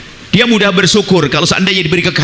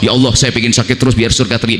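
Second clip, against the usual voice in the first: mock showy prayer; 7 semitones lower than usual.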